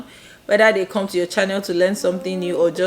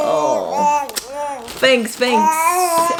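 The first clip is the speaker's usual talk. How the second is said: high tearful laugh; giggling thanks through tears; 10 semitones higher, much slower than usual. Real, not acted. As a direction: laugh and cry with joy. Laughing and crying at once.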